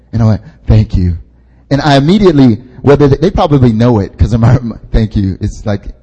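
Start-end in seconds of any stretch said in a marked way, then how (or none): 0.7-1.2 low, dismissive thanks. Retold or imitated. Preacher brushing off being told of God's love, dismissive. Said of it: "immediately gets rejected". 4.9-5.4 low, mildly dismissive thanks. Retold or imitated. Preacher acting out his rejection of kind words, dismissive. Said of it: "immediately gets rejected".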